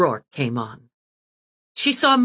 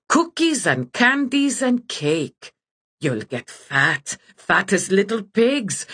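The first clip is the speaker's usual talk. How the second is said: slow, sly and a bit higher; lightly voiced gloating witch; 4 semitones higher than usual. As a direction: savour every word like a wicked witch. Witch gloats over captive children.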